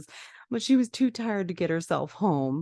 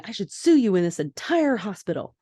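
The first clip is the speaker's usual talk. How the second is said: mock angry yell; 3 semitones higher, 3 dB louder than usual. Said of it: "as the woman continues to yell".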